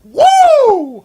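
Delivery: loud high victory whoop; excited cheer. Real, not acted. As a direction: cheer him on like a champ. Celebrating the winner.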